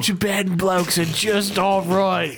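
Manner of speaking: Mister Everest voice. Acted. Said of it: "so much fun to do that voice".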